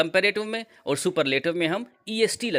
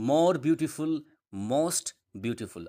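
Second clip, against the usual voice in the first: slow model word; much slower than usual. Shown as a demonstration. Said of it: "जैसे कि".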